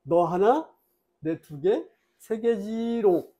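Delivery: put-on childish taunt. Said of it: "계속 놀리는 거야".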